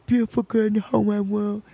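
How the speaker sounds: a hint of a tender, earnest man; lightly voiced date. Date holding her hand, confessing love, lightly voiced tenderness. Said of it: "he goes".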